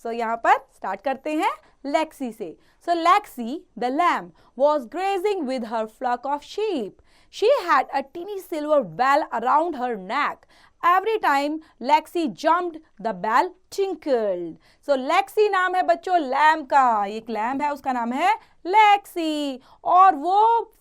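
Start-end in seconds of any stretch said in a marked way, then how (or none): 2.9-14.5 put-on slow, careful read-aloud for children; slow story reading. A narrator's reading. Teacher reading the story to children, slow and clear. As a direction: read each word slowly so the class can follow.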